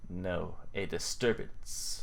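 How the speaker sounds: DISTURBANCE drawn out slowly; slow correction. Acted. Player corrects the guess of a monster, slow correction. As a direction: correct them slowly, low-key.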